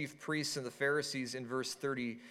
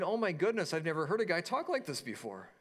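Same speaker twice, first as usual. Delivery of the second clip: mock jaw-dropped amazement, pitched up; lightly acted disbelief, higher at the start; imitating awe; 4 semitones higher, faster than usual. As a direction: act out wide-eyed astonishment. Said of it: "their jaws are dropping, their eyes are big".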